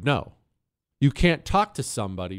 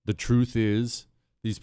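usual speaking voice

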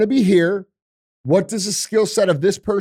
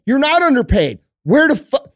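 heated; 6 semitones higher, 4 dB louder than usual. Real, not acted. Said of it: "heated rebuttal".

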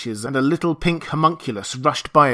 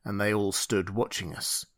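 ordinary delivery

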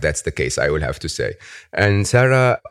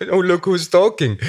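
high, laughing jab; laughing at his own strange accent; laughing tease; 12 semitones higher, 4 dB louder than usual. Real, not acted. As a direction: laugh it out while teasing back. Teasing back about his accent.

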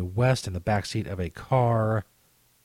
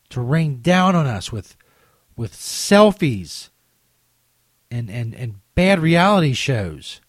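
dramatic announcer voice. Pretend. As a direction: announce it like an epic movie trailer. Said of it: "My very dramatic announcer voice".

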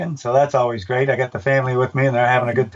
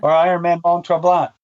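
light book reading, lively and changing its mind; reading aloud from his book. Acted. Announcer reads his book passage to the host, lightly voiced. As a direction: read the passage like a playful list. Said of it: "I'll read it to you".

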